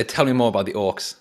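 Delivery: loud, harsh demand. Acted. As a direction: bark the question at the goblin. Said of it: "In a, in a nicer way, though. Not, not, not with that harsh tone of voice".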